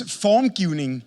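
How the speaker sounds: formgivning said slowly with Danish sounds; Danish word. Shown as a demonstration. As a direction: pronounce formgivning the Danish way, unhurried. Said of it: "the Danish word for design".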